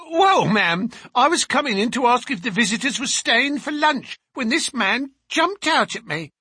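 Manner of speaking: loud, high servant's protest; indignant servant woman. Acted. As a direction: complain loudly and high to the mistress. Voices the indignant servant Susan.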